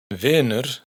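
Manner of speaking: "Wiener" as Icelandic "vinur", with a held "ih"; open but long i. Shown as a demonstration. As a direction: stretch a lax "ih" in "Wiener". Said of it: "la i es abierta pero larga".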